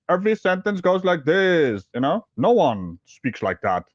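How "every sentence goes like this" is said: lightly mimicked odd tune on "Every sentence goes like this"; mock singsong lilt on "Every sentence goes like this"; imitated intonation. Shown as a demonstration. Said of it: "It's mostly the tonation of his voice".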